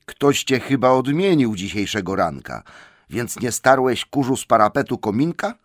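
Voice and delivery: mildly exasperated reproach; exasperated wizard. A narrator's reading. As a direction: scold with incredulous impatience. Gandalf exasperated with Bilbo.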